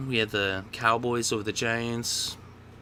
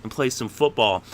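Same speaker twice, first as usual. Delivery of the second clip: mild mock scolding; 6 dB louder than usual. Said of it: "It's like".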